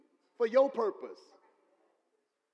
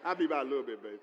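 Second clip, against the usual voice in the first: sweet phone reply; 8 semitones lower, much faster than usual. Retold or imitated. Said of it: "ain't gonna say it on the phone".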